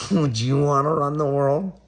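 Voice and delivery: high, loud taunting challenge; mocking shout. Taunting the viewer about wanting to run the world, a loud mocking shout.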